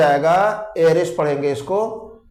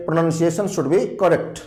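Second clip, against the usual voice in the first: careful pronunciation; much slower than usual. Shown as a demonstration. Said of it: "उच्चारण आपका अच्छा हो".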